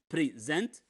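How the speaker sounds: teacher sounding out present syllable by syllable; stress contrast demo. Shown as a demonstration. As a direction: present split into two careful syllables, pre-SENT. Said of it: "It's not the same pronunciation".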